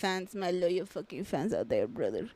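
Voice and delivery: low, put-on wrestler voice; Hulkster. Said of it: "when you are not the Hulkster".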